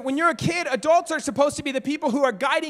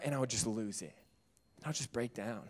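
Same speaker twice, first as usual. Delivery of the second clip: breaking down; 11 semitones lower, 11 dB quieter than usual. Retold or imitated. Breaking down alone in van.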